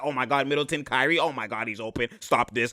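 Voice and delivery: soft low mock panic; mock panicked defender. Commentator voices Giannis quietly panicking at open shooters. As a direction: murmur it like a defender overwhelmed.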